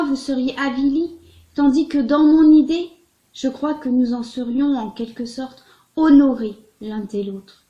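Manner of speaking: expressive, measured literary reading; letter read aloud. Acted. Reader voices Balzac's letter to Laure de Berny, expressive literary reading. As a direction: read it out phrase by phrase, with pauses.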